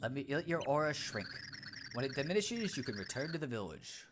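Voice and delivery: soft, measured sage voice; calm wise pixel. Acted. Pixel answering the startled Cragnon, calm sage voice. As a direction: speak like a serene little oracle.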